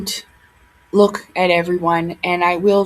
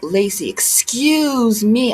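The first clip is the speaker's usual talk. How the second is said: slow, drawn-out snooty "excuse me"; imitating a rude commenter, drawn out; mock commenter "excuse me"; much slower than usual. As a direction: stretch out a condescending "excuse me". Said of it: "one guy was like".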